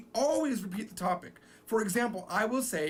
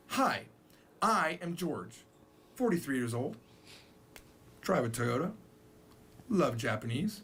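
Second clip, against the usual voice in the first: Japanese style introduction; 3 semitones lower than usual. Shown as a demonstration. Teacher shows Japanese style dropping "I". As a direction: list the facts without the subject. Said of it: "they talk like this".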